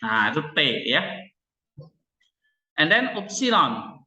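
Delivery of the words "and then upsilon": high, slow, drawn-out announcement; mock-grand reveal of sigma; announcing next letter. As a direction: present the next letter like a show host. Teacher announces next Greek letter.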